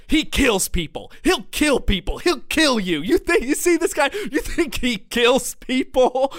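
high, loud impression of a frantic friend; emphatic warning. Friend warning the waitress about his companion, imitated emphatic yelling. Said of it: "my friend emphatically".

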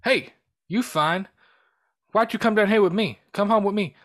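lightly voiced flirty tough guy; mock Mister T hitting on Adrian; Mister T flirting. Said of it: "he's like".

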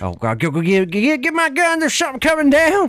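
hammed-up hillbilly panic; panicked hillbilly. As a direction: scramble for the gun in panic. Son panics at UFO.

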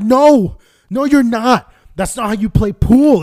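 mock stern dad. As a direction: scold like an annoyed father.

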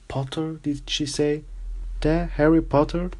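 gossiping students in disbelief; excited hushed chatter; surprised whispers. Acted. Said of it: "whispers suddenly broke out".

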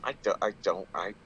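high, loud, incredulous question; real bafflement. Real, not acted. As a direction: burst out in disbelief.

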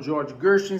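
"George Gershwin" lightly anglicised, Jorji Guershin; unexaggerated pronunciation. Shown as a demonstration. Teacher shows his own everyday version, unexaggerated pronunciation. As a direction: say "George Gershwin" without overdoing the English. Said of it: "eu falo".

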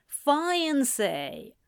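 mild crowing surprise at "Fiancé?"; lightly crowed "Fiancé?", falling at the end; understated delighted "Fiancé?". A narrator's reading. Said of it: "Lucas crowed".

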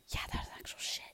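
whispered mock reply. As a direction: hush it, deadpan confession. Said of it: "I'll have to be like".

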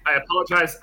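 talking through chips; chewing while talking. Real, not acted. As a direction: mouth full of chips. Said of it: "I am eating chips".

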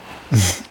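short, low laugh; real brief chuckle, pitched low. Real, not acted. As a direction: chuckle low before answering. Amused before explaining the film.

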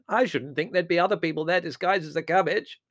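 high, loud, amused piping; chuckling dotty aunt. A narrator's reading. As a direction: say it with tickled delight.

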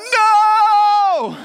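sharp, high, loud NO at a puppy; scolding shout of no. Shown as a demonstration. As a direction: yell it to stop the dog mid-mess. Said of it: "Tone has a no".

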